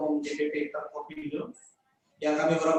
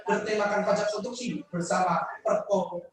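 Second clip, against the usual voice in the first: reciting a pantun. Acted. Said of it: "Pantun saya ini".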